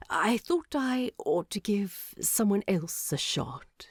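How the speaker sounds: wan smile. A narrator's reading. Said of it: "Bilbo said with a wan smile".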